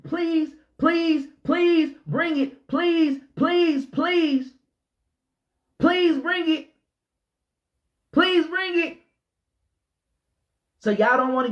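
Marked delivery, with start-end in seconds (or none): 0.0-9.0 higher pleading please, slow and drawn; hammed-up pleading; mock begging. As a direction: beg like a child, whiny and high. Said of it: "I'm steady begging".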